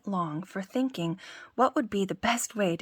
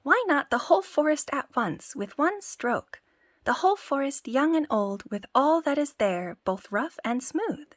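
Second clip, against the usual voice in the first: boasting tailor; 6 semitones higher than usual. Acted. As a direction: brag grandly to the giant.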